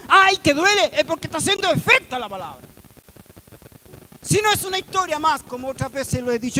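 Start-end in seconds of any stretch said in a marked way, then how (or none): 0.1-0.9 loud, high mock outcry; acted cry of pain. Preacher quoting the believer's expression when the word hits, crying out. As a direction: exclaim sharply as if stung by the word. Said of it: "te llega a decir esa expresión".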